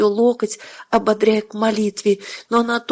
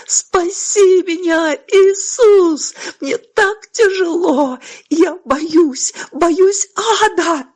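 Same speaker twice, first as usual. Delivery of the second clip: much higher and louder, crying out; desperate cry; 8 semitones higher, 4 dB louder, much slower than usual. A narrator's reading. Mother crying out to Jesus in fear. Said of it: "Это был крик изнутри".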